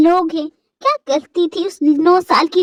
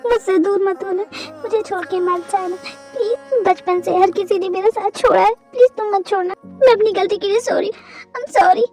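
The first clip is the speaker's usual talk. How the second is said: pleading wife; 3 semitones higher than usual. Acted. Wife begs him not to leave.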